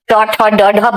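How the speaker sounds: ट, ठ, ड, ढ struck hard with the tongue; hard Hindi consonants. Shown as a demonstration. Teacher showing what not to do, hard Hindi ट, ठ, ड, ढ. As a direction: knock out each of ट, ठ, ड, ढ. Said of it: "बजा के मत बोलना".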